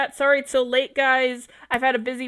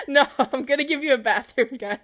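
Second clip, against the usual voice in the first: laughing. Real, not acted. Laughs while reassuring viewers.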